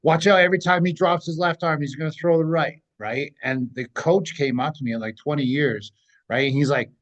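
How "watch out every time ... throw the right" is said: mild mock yell, slightly raised pitch; retold yelling. Retelling warnings to a friend in the ring, mild yell. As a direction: imitate calling a warning from ringside. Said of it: "And I'm yelling, like".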